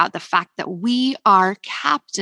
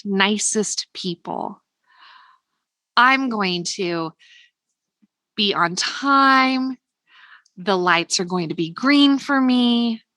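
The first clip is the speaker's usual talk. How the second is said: calm affirmations. Shown as a demonstration. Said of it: "Ask for it as a statement".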